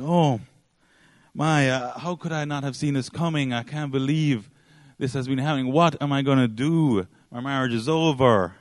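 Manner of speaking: lightly acted despair of a distraught wife; mock distraught. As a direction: mildly wail it, no real tears. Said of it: "she starts crying and saying".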